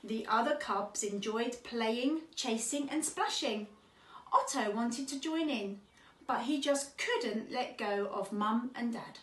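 measured picture-book reading; children's story narration. Acted. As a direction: read gently paced to young children. Reads a children's story aloud.

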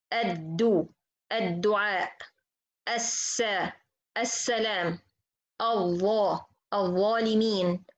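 each word slow, the lam merged into the doubled letter; slow recitation drill. Shown as a demonstration. Teacher reciting example words slowly for students. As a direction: recite the list syllable by syllable. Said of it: "For example".

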